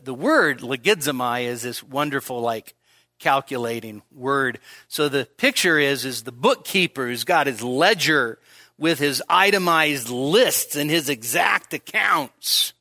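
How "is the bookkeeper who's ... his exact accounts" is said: normal talking voice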